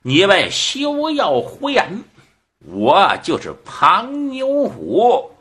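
high-pitched indignant protest; shouted retort. Acted. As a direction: call out to correct them, drawing out the end. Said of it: "这庞牛虎喊了一声".

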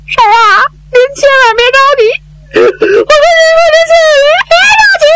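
high, fast, choked pleading; urging her to stay calm while holding back sobs; Zhao Bi tearful. Acted. Zhao Bi tells the aunt not to worry, high and tearful.

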